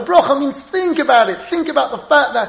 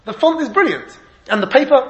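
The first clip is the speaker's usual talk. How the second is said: mock rave review; 4 semitones higher than usual. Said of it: "Imagine they wrote a book review".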